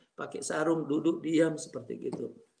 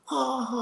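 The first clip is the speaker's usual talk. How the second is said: higher, drawn-out mock guffaw; imitated crowd laughter; 7 semitones higher than usual. Whole mosque laughing at the preacher's joke, imitated laughter. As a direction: imitate a congregation roaring with laughter. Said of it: "pada tertawa".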